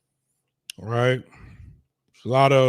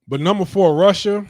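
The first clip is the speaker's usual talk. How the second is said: loud announcement; 3 semitones higher, 6 dB louder than usual. Real, not acted. Announcing country on countdown list.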